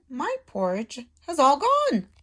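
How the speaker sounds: put-on high squeaking baby bear; squeaky Baby Bear. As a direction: squeak like a tiny cub. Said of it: "squeaked Baby Bear".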